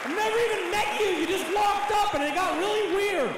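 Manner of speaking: yelling in frustration at a pushy stranger; exasperated shout. Retold or imitated. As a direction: shout back at a total stranger. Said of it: "I'm like".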